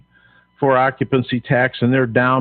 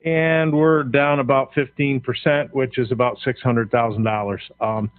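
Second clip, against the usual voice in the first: winded, breathing hard between words. Real, not acted. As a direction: still panting from the stairs. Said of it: "sorry, I'm a little out of breath".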